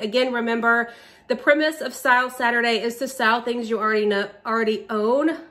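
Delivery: breathless from squatting; winded, short of breath. Real, not acted. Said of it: "I'm starting to get out of breath from squatting".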